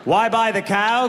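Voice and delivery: "Why buy the cow" rising on "cow"; questioning tune. Acted. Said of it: "question mark".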